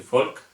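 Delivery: Folk with a hard K at the end. Shown as a demonstration. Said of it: "sería como mi apellido".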